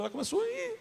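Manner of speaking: high crying whimper. Retold or imitated. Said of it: "Minha esposa começa a chorar".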